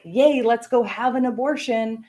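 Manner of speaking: mock-gleeful yay; mock cheering. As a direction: pretend to be thrilled, sarcastically. Mock cheer of imagined people.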